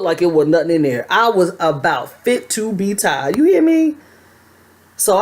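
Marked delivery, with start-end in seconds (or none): 3.4-3.9 emphatic aside. Real, not acted.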